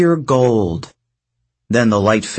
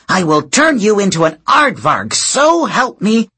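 angry threat; 9 semitones higher, 4 dB louder than usual. A narrator's reading. Hera threatening Thalia.

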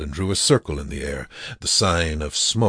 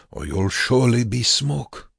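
higher-pitched threat; urgent warning; 7 semitones higher than usual. A narrator's reading. Prisoner warning Joseph of the chimneys, urgent raised voice. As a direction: warn him with raised pitch.

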